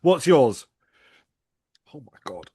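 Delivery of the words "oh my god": strained whispered groan; hurting from the spice; pained gasp. Real, not acted. Sauce heating up.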